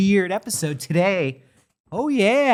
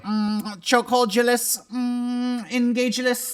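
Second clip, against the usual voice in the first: alien voice; 7 semitones higher than usual. Retold or imitated. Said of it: "they're gonna be like".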